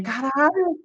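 high-pitched, awestruck swear; amazed exclamation. Retold or imitated. Fan retelling a reaction to the clip, amazed. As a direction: let it rise in mock amazement. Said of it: "Eu fico assim".

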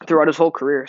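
speaking through hiccups. Real, not acted. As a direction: hiccup breaking the words. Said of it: "got, like, uh, the hiccups".

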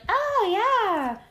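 high, put-on Hispanic accent imitating her girlfriend; hammed-up Hispanic accent, eager and bright; mock Hispanic accent. Imitating girlfriend arriving at the gym, mock Hispanic accent. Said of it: "doing my accent more Hispanic".

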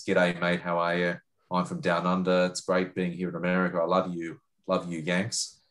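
lightly put-on ocker Australian accent; broad Australian accent. Shown as a demonstration. Australian reporter introducing himself to Americans, broad Aussie accent. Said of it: "Australian accent is a bit broader".

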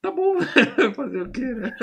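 very high, laughing fake resignation; mock resigned glee. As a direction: pretend to complain while loving it. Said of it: "acting Arsenio's happy resignation".

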